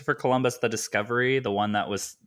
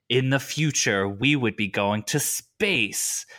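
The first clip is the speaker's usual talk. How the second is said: trailer narrator voice; slower than usual. Retold or imitated. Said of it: "in the Ridley Scott shadow of Alien".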